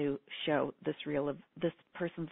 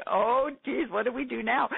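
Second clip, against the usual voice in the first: put-on high, louder panicked kid voice; alarmed kids; 5 semitones higher, 4 dB louder than usual. Mother voicing her frightened kids, high and loud. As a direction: play the startled children.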